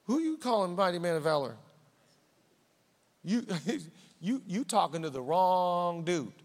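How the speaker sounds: quick, scoffing disbelief; mock protest to the angel; incredulous Gideon. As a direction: brush off the compliment with a snort. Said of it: "He's like".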